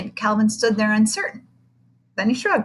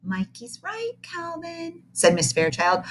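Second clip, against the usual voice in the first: teacher agrees; 5 semitones higher, 5 dB louder, slower than usual. Acted. Teacher voiced.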